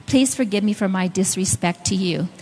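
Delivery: retold mildly sheepish apology. Wife asking husband to forgive her disrespect, mildly sheepish. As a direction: apologise a little sheepishly, keeping it understated. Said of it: "I kinda sheepishly said".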